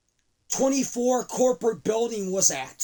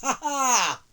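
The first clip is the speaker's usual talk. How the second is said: gloating laugh; 3 semitones higher than usual. Acted. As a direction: laugh then slow, gloating line. Gloating heel laugh, slow.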